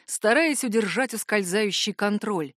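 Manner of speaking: ordinary delivery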